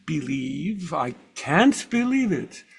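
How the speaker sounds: imitating an old Swiss German speaker; Carl Jung Swiss accent. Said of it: "my best impression of Carl Jung with a Swiss accent".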